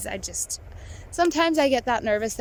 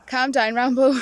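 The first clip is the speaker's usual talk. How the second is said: louder, laughing as you say it; laughing mock advice; 2 semitones higher, 6 dB louder than usual. Joking that the Coke ad tells Rambo, laughing. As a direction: say it through a laugh like a joke. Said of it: "the way I sort of always take from that is".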